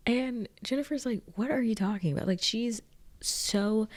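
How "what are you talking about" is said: higher-pitched, lightly feigned cluelessness; acted obliviousness. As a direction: play dumb with a puzzled question. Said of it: "she's acting so oblivious".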